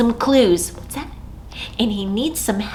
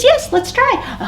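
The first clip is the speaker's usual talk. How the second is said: bear voice; 13 semitones higher than usual. Acted. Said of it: "He says".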